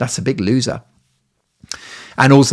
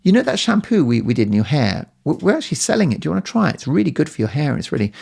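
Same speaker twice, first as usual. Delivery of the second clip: imitating hairdresser; 6 semitones higher, faster than usual. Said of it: "they go".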